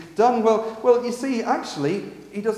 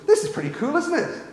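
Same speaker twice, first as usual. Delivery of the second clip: a hint of keen enthusiasm; eager Peter; 3 semitones higher, 4 dB louder than usual. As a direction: pitch it up like an eager disciple. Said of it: "Peter immediately goes".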